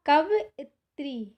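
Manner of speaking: कवइत्री said slowly, syllable by syllable; slow dictation. Shown as a demonstration. Teacher slowly reads कवइत्री to students. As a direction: draw out कवइत्री for the class. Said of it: "इधर दिया गया है अशुद्ध में कवइत्री".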